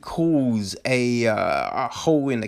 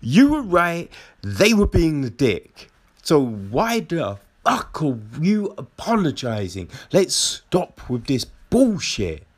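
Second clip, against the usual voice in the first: much higher exasperated outburst, settling down; exasperated rant; 4 semitones higher than usual. Retold or imitated. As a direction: scold them for apologizing. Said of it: "I'm like".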